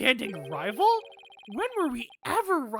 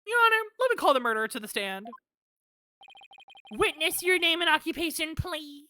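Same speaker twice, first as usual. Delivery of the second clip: pompous prosecutor; 7 semitones higher, 3 dB louder, faster than usual. Acted. Voicing Payne, fast and high.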